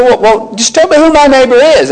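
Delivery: a man cornered, trying to save face; hint of an indignant lawyer; self-justifying lawyer. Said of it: "he wanted to justify himself".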